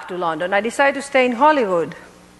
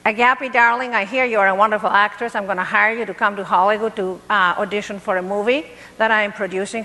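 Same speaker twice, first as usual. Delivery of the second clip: put-on American accent; 2 semitones lower, faster than usual. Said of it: "How's my American accent?".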